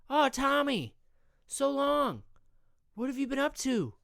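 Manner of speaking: high, eager hello; overly friendly greeting. Acted. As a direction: gush over an old friend. Scott greets cousin Tommy.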